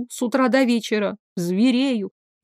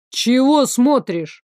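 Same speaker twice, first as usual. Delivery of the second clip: slow, growled question; a mild growl from the prince at the staring guard; 2 semitones higher, slower than usual. Acted. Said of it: "рыкнул Вышеслав".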